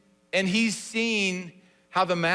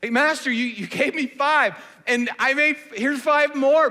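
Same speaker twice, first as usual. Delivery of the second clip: excited; 7 semitones higher, 6 dB louder than usual. Shown as a demonstration. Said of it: "the servant has to be excited about this".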